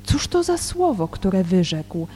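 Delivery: solemn Gospel reading with deliberate pauses; scripture reading. Real, not acted. Teacher reads John's Gospel in Polish before commenting, measured scripture reading. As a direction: read the verses out, phrase by phrase.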